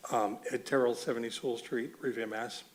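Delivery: hoarse, worn-out voice; losing voice. Real, not acted. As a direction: push words through a tired throat. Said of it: "Sorry, I'm losing my voice".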